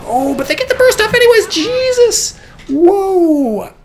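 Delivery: loud, high-pitched yell of disbelief; high, shouted commentator's astonishment; shocked outburst. Real, not acted. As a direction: erupt in real shock at a sudden turn. Sudden shock in live match.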